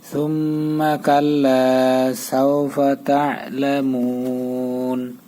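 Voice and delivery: verse drawn out slowly and evenly; slow recitation. Shown as a demonstration. Teacher reciting the verse slowly for the class. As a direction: chant each word long. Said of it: "verse recitation".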